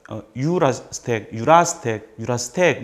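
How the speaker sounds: 유라스텍 with one syllable punched and stretched; comedy-show style stress on 유라스텍; stressed syllable held long. Shown as a demonstration. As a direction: lean hard on the stressed part of 유라스텍, drawing it out. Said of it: "강세 있는 부분을 조금 강하고 길게 읽으시면".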